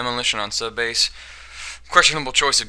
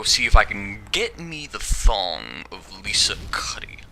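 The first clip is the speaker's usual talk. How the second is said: devious whisper; slower than usual. Acted. Devious aside about Cuddy.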